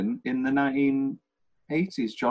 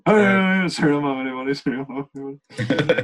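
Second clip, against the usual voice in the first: calling out. Pretend. Calling out again.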